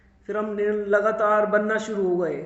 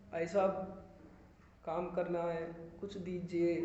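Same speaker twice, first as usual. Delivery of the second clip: softly imitating his own begging; a low, humble plea for work; quiet pleading; 3 semitones lower, 10 dB quieter than usual. Retold begging to casting directors. (धीमी आवाज़ में विनती की नकल)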